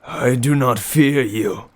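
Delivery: slow, strained defiance; groaning old man. Acted. The beaten old man answers the king, slow and strained. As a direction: push defiance through the pain. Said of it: "the old man groaned".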